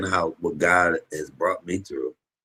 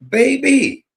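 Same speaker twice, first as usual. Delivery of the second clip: joyful cry; 5 dB louder than usual. Real, not acted. Joyful exclamation to congregation.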